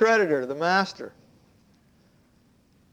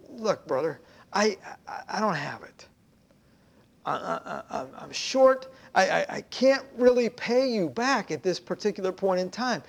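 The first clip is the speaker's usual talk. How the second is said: timid pleading. Acted. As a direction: beg for grace nervously. Second debtor pleading hushed.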